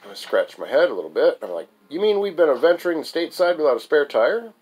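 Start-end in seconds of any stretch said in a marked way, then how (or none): 1.9-4.5 pitched-up disbelief, rising at the end; incredulous question. Acted. Narrator questions friend about missing spare, incredulous. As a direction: question it as if you can't believe it.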